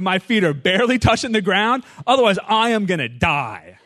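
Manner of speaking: hammed-up desperate runner's plea; desperate gasping prayer. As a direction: beg God dramatically mid-race. Praying during hard run.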